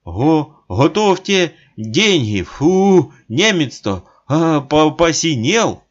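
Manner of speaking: сипло и громко, заикаясь от холода; сипеть сквозь дрожь; сипит, дрожа. A narrator's reading. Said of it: "сипит". (сиплый дрожащий голос)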